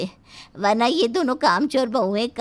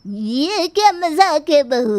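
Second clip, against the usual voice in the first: a loud, higher-pitched indignant snap; outraged at being made a fool of; angry granny; 6 semitones higher, 5 dB louder than usual. Acted. Grandmother-in-law angry at prank plate.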